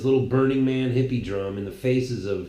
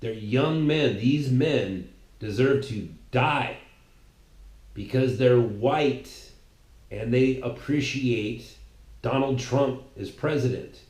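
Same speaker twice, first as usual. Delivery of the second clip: mock opponents.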